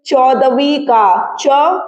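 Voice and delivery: च drawn out slowly at the start of चौदहवी; slow demo stress. Shown as a demonstration. Teacher slowly stressing च for students. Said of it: "ये छेक लो इसे".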